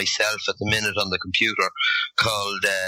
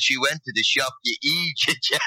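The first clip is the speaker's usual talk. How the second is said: higher, imitated put-down; mock exasperation; 4 semitones higher than usual. Lad explaining to his clueless friend, mock-exasperated. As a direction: play the exasperated bystander, pitched up. Bystander scolds friend in retold story.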